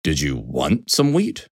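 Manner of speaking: slow, low offhand question; casual. A narrator's reading. Mister Horse offering wheat, slow casual question. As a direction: ask unhurriedly, as if it hardly matters. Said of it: "Mister Horse asked casually".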